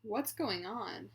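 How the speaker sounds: strong voice, each word deliberate and intonated; deliberate, with intent. Shown as a demonstration. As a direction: model phrases clearly for someone to repeat. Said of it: "make sure you're saying each word, um, deliberately".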